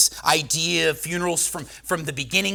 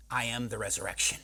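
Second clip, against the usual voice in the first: low, much softer solemn declaration; solemn quiet; 6 semitones lower, 9 dB quieter than usual. Acted. Preacher quoting Jesus to the church, low and hushed. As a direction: drop right down and let it land.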